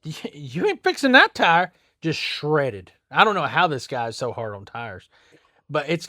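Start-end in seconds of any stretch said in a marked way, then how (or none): 0.0-1.7 louder, higher flat refusal; retold blunt verdict. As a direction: tell him straight it's done. Telling customer tire is ruined.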